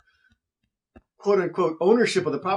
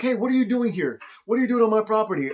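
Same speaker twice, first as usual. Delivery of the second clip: angry neighbor; 5 semitones higher than usual. Retold or imitated. Angry neighbor confronts him.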